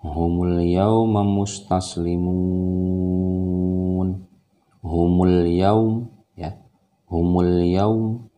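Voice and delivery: 'yaum' said loud and clearly; over enunciating. Shown as a demonstration. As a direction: stress 'yaum' plainly and slowly.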